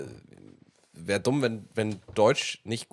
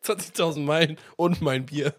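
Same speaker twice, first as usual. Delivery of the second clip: put-on drunken slurring; 8 semitones higher, 4 dB louder than usual. Shown as a demonstration. Repeats title, drunk-like.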